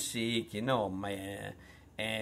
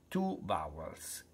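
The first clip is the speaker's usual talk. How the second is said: whisper; 7 semitones lower, 6 dB quieter than usual. Real, not acted. Teacher aside.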